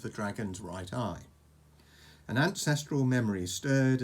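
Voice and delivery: measured bedtime-story narration; story read to a child. A narrator's reading. Reading a dragon story to Oscar, storytelling. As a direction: tell it like an adventure tale, phrase by phrase.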